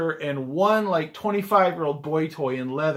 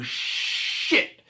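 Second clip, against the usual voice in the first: whispered oh shit; 4 semitones higher, 4 dB quieter than usual. Retold or imitated. Realizing the passenger is an impostor.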